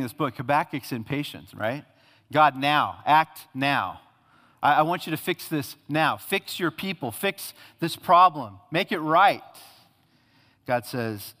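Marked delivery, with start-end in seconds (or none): 2.3-9.4 loud, urgent pleading; a frustrated prophet pressing God to act now; impatient demand. Acted. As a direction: demand it right now, a touch louder.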